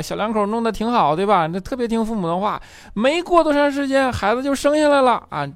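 hammed-up father pushing for grandkids; nagging dad. Dad nags son about the neighbors' baby, high mock voice. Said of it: "他爸就催他催婚，说".

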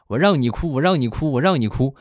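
put-on a mother berating a crying kid, each repeat hammered; mother yells at the crying child as she hits him; mom scolding. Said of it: "我妈就是一边揍一边就骂".

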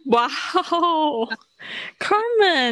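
high, excited exclamation; thrilled by her good intonation; delighted surprise. Real, not acted.

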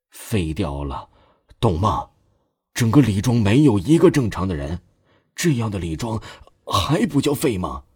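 sharp stern rebuke. Acted. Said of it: "犀利的目光和之前判若两人".

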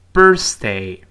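"birthday" loud with a light tongue-out th; clear th. Shown as a demonstration. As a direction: say "birthday" cleanly with the th. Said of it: "舌尖吐出来一丁丁点儿".

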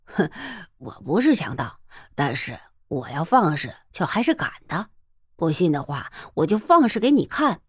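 low, relaxed mocking tone; calmly taunting the bully; amused. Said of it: "笑嘻嘻的说道". (笑嘻嘻地嘲弄)

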